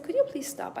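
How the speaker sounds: high-pitched polite appeal; imitated anxious request to stop; retold urgent plea. Retold plea to reckless driver.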